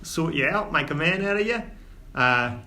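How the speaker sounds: lightly voiced Cockney dwarf dad, scolding but fond; dwarf father in Cockney. Old dwarf father chiding his son, lightly Cockney.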